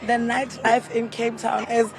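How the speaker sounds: lost voice, rasping through; hoarse voice. Real, not acted. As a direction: speak with a worn-out hoarse voice. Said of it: "as you can hear, my voice is gone".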